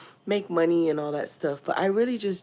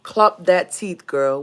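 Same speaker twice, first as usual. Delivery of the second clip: Nigerian phrase; 6 dB louder, much slower than usual. Retold or imitated. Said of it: "Don't say it will sub".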